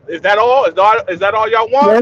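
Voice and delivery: high, unbothered Jamaican shrug; Jamaican accent. Retold or imitated. The worker shrugging off news of Johnny, Jamaican accent. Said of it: "the man is like".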